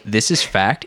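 light British accent; lightly British statement of fact. Shown as a demonstration. Host showing how fact sounds smarter, light British accent. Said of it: "in a British accent".

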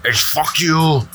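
mock angry quitting. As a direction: fake rage, storm off. Mock outburst quitting the game.

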